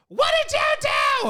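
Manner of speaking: high accusing shout; mom yelling. Retold or imitated. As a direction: yell at the babysitting kid. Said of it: "looks at me, goes".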